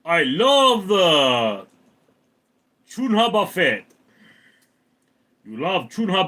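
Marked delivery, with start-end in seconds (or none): 0.1-3.8 laughing quote. Retold or imitated. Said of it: "El Pistofo is laughing".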